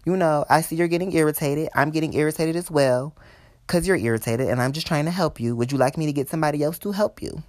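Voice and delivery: restrained, courteous confrontation; polite but irritated. Retold or imitated. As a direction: keep it polite while admitting irritation. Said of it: "I say politely".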